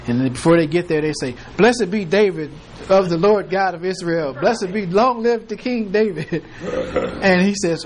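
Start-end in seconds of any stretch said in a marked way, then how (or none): 1.6-6.4 mock prophesying. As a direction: gush praise like a swept-away messenger.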